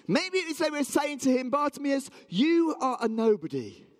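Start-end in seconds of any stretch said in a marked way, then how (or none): 1.5-3.8 high, emphatic put-down; scornful berating. Acted. Townspeople tell Bartimaeus he is nobody, scornful berating. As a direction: lay into him, pitched up and insistent.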